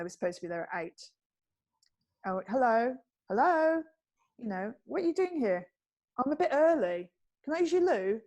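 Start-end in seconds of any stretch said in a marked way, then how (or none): 2.3-8.2 chirpy early cabbie voice at the door; mock-friendly intruder, a bit loud; cheery cabbie. Fake cab driver begging to come in, chirpy.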